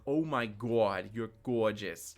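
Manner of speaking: slow gushing New Jersey aunt; a hint of an overeager mom; obnoxious aunt. Shown as a demonstration. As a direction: drag it out like a fawning aunt. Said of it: "the obnoxious aunt or the mom that's like".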